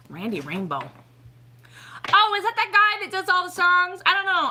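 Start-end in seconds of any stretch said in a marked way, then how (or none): 2.1-4.5 loud, high eager question; pitched up, animated guessing; excited recognition. Real, not acted. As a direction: blurt it out as you half-remember. Sudden recognition of another name.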